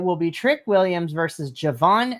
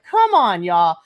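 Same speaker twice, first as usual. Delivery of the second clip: exasperated plea; 5 dB louder, slower than usual. Retold or imitated. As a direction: whine it out in frustration. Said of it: "I was like".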